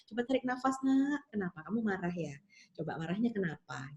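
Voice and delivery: soft, gentle coaxing to breathe; calming mother. Retold or imitated. Mother coaxing her crying child to breathe, soft and gentle. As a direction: ease the child down quietly.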